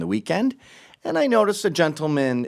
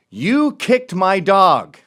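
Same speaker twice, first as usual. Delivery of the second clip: slow, loud, higher outraged yell; retold yell; 6 semitones higher, 8 dB louder, much slower than usual. Dog owner yelling after his dog was kicked, loud. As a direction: stretch out the outrage. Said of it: "he yells".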